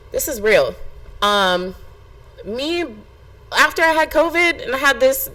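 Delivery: ordinary delivery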